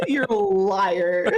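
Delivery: slow, laughing "you're a liar"; laughing mock accusation. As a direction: tease him through laughter.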